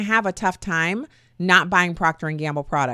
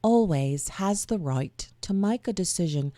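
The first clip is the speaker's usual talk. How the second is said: second go at a British accent, softer; British accent attempt; 4 dB quieter than usual. Shown as a demonstration. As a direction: try the Brit voice once more, quietly. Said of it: "read it in a voice that sounds like I'm a Brit".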